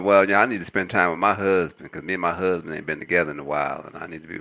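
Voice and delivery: exaggerated Black American accent; sassy Black American accent impression; Monique voice. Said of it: "Why you gotta do her?".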